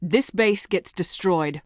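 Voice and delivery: very slow, every word set down; no room for argument; firm final order. Acted. Commander overrules Rex, slow and final.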